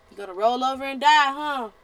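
a preacher scolding the viewer; scolding challenge. Real, not acted. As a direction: call them out sharply. Scolding the listener.

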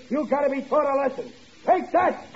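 high-pitched, hammed-up punishing father; stagy mock fury; sham scolding. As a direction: put on a scolding for someone listening outside. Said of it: "I'll hit the desk here with my belt".

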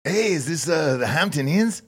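prank-call a hotel in a put-on Mexican accent; mock Mexican accent. Prank caller asking the hotel for a free room, in a mock Mexican accent. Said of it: "fun, flirty, uh, Mexican accent".

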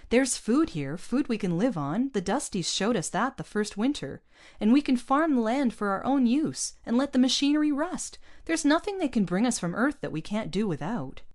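keen, hopeful push; eager. A narrator's reading. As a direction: sell the plan with enthusiasm. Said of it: "said Mario eagerly".

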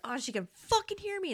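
high-pitched imitation of thrilled discovery; imagine him amazed to be heard; excited stranger. Voicing the mystery man finally being heard, excited. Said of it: "he's excited".

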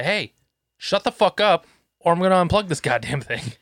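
mildly heated re-enacted dad outburst; retold angry order. Dad bursting in on his noisy gamer kid, angry. Dad storming into kid's room.

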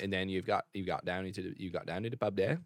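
put-on loose, rambling English accent. Riffing on going to the pub, sloppy English accent. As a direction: chatter in mock pub English. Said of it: "you also have this English accent".

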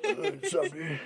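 high mocking bro greeting; hammed-up surfer dude. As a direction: lampoon a laid-back bro. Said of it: "the dude bro Zach Bagans where I'm like".

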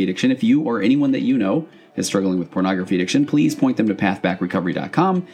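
talking while chewing gum; chewing gum mid-sentence. Real, not acted. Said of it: "why do I have gum in my mouth?".

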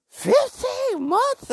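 very high, loud, drawn-out outcry; shocked disbelief. Retold or imitated. Podcaster repeats how long she was cheated on, shocked. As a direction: stretch it out in squealing mock shock.

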